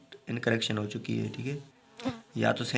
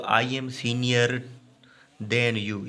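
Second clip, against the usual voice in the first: slow, measured reading with a break before "than"; slow teacher's dictation, "than" set apart; slow example sentence; much slower than usual. Shown as a demonstration. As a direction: read it out slowly, pausing after "senior". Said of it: "ये गलत है".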